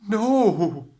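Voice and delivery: high, loud scream of no. A narrator's reading. Prince screams as the sister's foot fits. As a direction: scream the refusal. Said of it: "The prince screamed".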